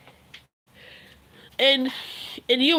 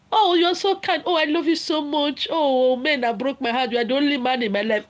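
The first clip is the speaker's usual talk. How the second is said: mock flattered girlfriend. A girlfriend gushing back at the married man, mock swooning. Mocking the woman who agrees.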